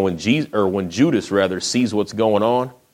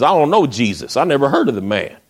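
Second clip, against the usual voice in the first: higher-pitched retold protest; mildly indignant denial, voiced higher; insistent denial; 5 semitones higher, 3 dB louder than usual. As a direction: deny it as if brushing off an accusation. Peter acted denying Jesus again.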